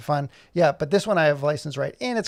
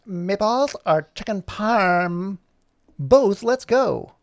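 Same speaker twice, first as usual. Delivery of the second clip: eager Puppy; 5 semitones higher, 5 dB louder, much slower than usual. Acted. Puppy voiced in dog story.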